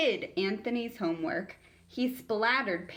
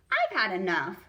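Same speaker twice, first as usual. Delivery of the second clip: peeved; 4 dB louder than usual. Acted.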